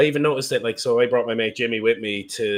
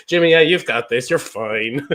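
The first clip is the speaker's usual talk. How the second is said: reassuring mate; 7 dB louder than usual. Retold or imitated. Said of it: "You're like".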